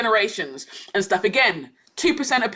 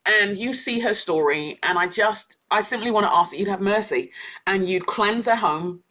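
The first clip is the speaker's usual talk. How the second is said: simple prayer; 2 semitones lower than usual. Retold or imitated. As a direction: pray simply and unhurriedly for her. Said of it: "I pray really simply".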